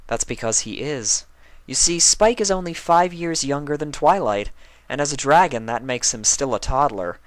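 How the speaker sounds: high, stately princess; regal princess. Acted. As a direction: explain it like a calm ruler. Celestia's voice.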